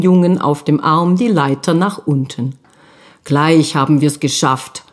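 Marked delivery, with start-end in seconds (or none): 3.2-4.8 reassuring. Acted. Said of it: "beruhigte er das Kind".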